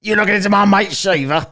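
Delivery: very high, loud mocking squeal. S0 parodying a defensive friend, high squeal.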